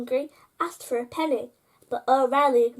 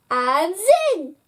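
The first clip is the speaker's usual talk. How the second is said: magical zing; 4 semitones higher, 5 dB louder than usual. A narrator's reading. Magic moment in story.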